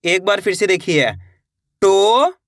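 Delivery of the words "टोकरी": "टोकरी" split as "टो ... क ... री" with long pauses; letter by letter. Shown as a demonstration. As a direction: stretch each part of "टोकरी" separately. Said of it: "एक एक अक्षर का उच्चारण". ("टोकरी" का एक-एक अक्षर अलग, खींचकर: टो ... क ... री)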